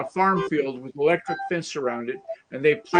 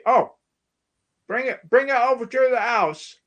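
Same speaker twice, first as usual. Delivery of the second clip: put-on Liverpool accent dropping the H in "house"; 8 semitones higher, 3 dB louder than usual. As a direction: say "bring it over to the house" with no H, Liverpool style. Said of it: "Liverpool, don't say H".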